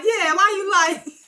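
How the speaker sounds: high, loud, slow accusing shriek; hammed-up outraged squeal; mock shriek. Retelling Elder Mother's yelling again.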